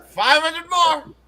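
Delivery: high, slow, drawn-out gloat; gloating over the winnings, high and slow; smug demand. Retold or imitated. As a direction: stretch it out, smug and triumphant. Jumper demanding more money.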